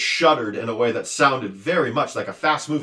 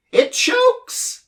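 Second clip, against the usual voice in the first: very high, louder squeal of joy; jump-for-joy shriek; joyful shout; 6 dB louder than usual. A narrator's reading. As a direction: din shouts gleefully. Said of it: "he shouted again".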